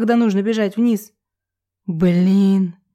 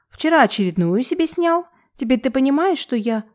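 higher gossipy cooing voice; cartoon princess; 5 semitones higher than usual. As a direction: tattle in a sugary high voice. Irka gossiping high. (голос мультяшной принцессы)

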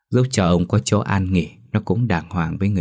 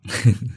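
gentle laugh; 4 semitones higher than usual. A narrator's reading. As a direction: chuckle fondly at the grandson. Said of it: "cười hiền hậu".

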